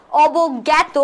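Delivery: অবজ্ঞাত said as "obog-gyæto"; answer-option pronunciation. Shown as a demonstration. Teacher reading out answer choices, অবজ্ঞাত pronounced "obog-gyæto". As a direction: say অবজ্ঞাত with an open "gyæ" before "to". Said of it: "শুদ্ধ উচ্চারণ কোনটি".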